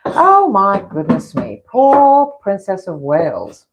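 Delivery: lightly hammed-up British colonial accent, slow; mock concern, drawn out in a colonial accent. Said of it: "I was used to a more colonial accent".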